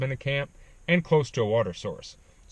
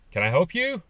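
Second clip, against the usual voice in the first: higher, louder call back from inside the tent; 9 semitones higher, 4 dB louder than usual. Retold or imitated. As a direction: answer the stranger outside, voice raised. Answering voices outside tent at night.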